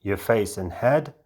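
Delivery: measured meditation guide with long pauses between phrases; guided meditation. Acted. Guide leading a volunteer into an altered state, guided meditation delivery. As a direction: lead them step by step, leaving space after each instruction.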